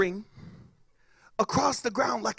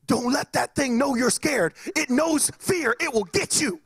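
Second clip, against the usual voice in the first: lightly acted friend, pitched higher; urgent warning; 5 semitones higher than usual. Friend warning the scared kid about fireworks, mock-urgent. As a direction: warn him with mock urgency.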